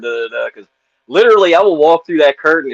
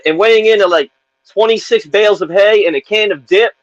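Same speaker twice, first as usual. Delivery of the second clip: announcer voice; 7 semitones higher, 3 dB louder than usual. Retold or imitated. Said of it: "his weight is like a".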